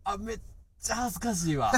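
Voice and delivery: real embarrassment. Real, not acted. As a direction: balk shyly at being put on the spot. (めっちゃ恥ずかしそうに)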